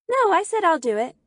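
insistent refusal. A narrator's reading. Girl refusing to hand Peter the letter, insistent.

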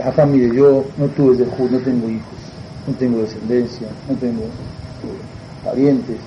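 put-on low, soft elderly petitioner; lightly voiced old man, low and halting. Childless old man pleading with the rabbi, low elderly voice. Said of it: "una persona mayor".

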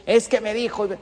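hurt listener protesting in a mock whine; whiny complaint. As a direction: mimic someone taking offense. Mimics offended listener's complaint.

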